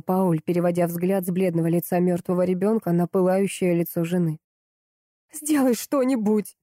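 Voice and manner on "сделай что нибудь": higher, slow, in a voice not her own; strange voice. A narrator's reading. Wife repeats her demand in a stranger's voice. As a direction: say it as if someone else speaks through her. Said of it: "повторила она чужим голосом".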